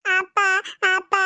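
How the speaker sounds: put-on child's short tearful call; acted crying. Crying girl calls to her father, tearful. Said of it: "ಯಾಕ್ ಹೊಳ್ತಾ ಇದೀಯ".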